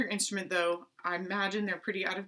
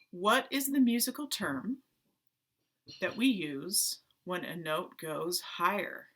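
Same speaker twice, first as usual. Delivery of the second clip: deliberate quiz question. Real, not acted. First reading of secret question.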